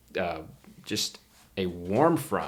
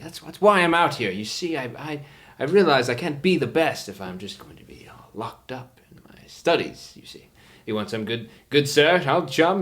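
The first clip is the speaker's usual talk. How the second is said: fussy professor; 6 semitones higher than usual. Acted. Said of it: "He's like".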